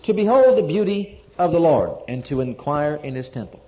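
solemn, measured Bible reading aloud; scripture reading. Acted. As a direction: read the psalm out to the congregation, phrase by phrase. Reads the psalm aloud.

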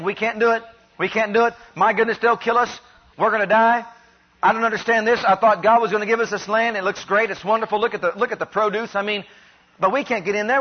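lightly acted worried grumbling, piling complaint on complaint; mock clamoring. Preacher voices the people who fear entering the land, mock clamoring. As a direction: imitate a crowd clamoring in mild dismay. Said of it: "All these people are out there clamoring about".

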